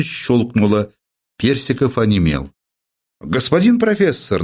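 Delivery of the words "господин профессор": pleasant husky voice. Acted. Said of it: "приятным сиповатым голосом".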